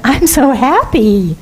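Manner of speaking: slow, contented I'm so happy; gently cheerful demo; happy reply. Shown as a demonstration. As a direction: savour the word happy. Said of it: "what if we said".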